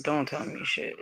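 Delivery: a bitter whisper, voice gone. Real, not acted. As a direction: drop it to a breathy whisper, almost to yourself. Venting, drops to a whisper.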